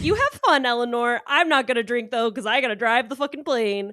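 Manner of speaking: high, chirpy put-on voice for Amelia; mock Amelia voice. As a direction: play Amelia as a sober, perky pilot. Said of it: "And Amelia was like".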